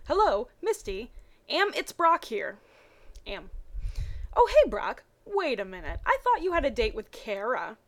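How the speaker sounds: reading the Pokemon fanfic dialogue with energy; voiced characters. Reading Brock and Misty's phone call in lively voices.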